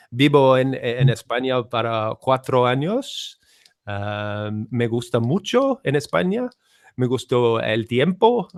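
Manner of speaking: Spanish-accented "Estoy aprendiendo español". Shown as a demonstration. Asked by a friend, a Spanish accent demo. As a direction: show off a rolled-R Spanish accent. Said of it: "what else could I say".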